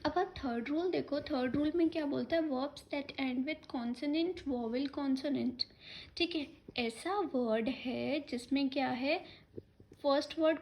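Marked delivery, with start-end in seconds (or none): 2.5-5.6 slow classroom dictation of a grammar rule. Shown as a demonstration. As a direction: spell out each word slowly for the class. Teacher dictates the rule slowly.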